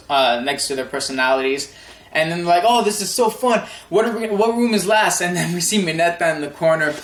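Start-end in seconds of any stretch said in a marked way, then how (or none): 2.6-5.2 put-on higher, lightly excited girls' chatter; imitated excitement. Reviewer voicing girls touring the boys' rooms, mock excited. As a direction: imitate girls having fun, pitched up.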